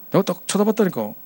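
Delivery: ordinary delivery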